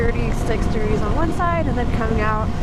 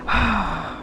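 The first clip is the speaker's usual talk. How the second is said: breathless from the cold; shivering; 6 dB quieter than usual. Real, not acted. Shivering after cold water.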